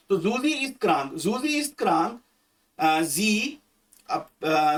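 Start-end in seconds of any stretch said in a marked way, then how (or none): 0.2-1.1 slow dictation. Shown as a demonstration. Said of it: "तो जूजी ही बोलना है इसको". 1.1-2.2 slower dictation. Shown as a demonstration. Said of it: "तो जूजी ही बोलना है इसको".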